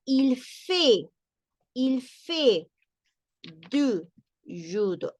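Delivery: "du judo" drawn out slowly in French; French read aloud. Shown as a demonstration. Teacher models the French sentence for students. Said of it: "Y tenemos acá en la otra".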